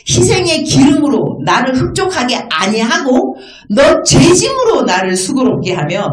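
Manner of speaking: declaimed verse with punched key words; emphatic scripture reading. Real, not acted. Preacher re-reading verses to congregation, emphatic recitation. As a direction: recite each phrase with weight, then settle at the close.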